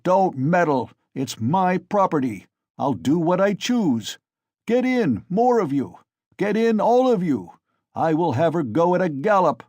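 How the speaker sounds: loud, high furious bellow; drunken defiance. A narrator's reading. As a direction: roar down the crowd. Mikolka defies the crowd in rage.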